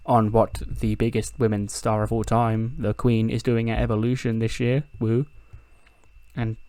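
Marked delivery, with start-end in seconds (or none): 0.1-5.3 Charlotte's voice. Retold or imitated. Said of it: "It's like".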